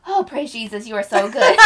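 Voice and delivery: lightly acted fervent worshipper; mock church praise. Covering nerves at church by praising, mock fervour. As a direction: praise as a cover, half laughing. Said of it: "I played it off".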